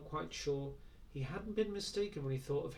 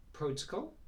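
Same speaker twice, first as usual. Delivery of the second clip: puzzled. Acted. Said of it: "Will was genuinely puzzled".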